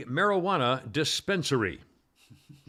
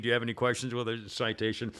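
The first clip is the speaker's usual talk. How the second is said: even, softer and unbothered; calm, quiet trooper; 5 semitones lower, 5 dB quieter than usual. Retold or imitated. Trooper calmly asks the driver about the ticket, quiet and even. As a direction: stay level while she screams. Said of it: "The cop just saying".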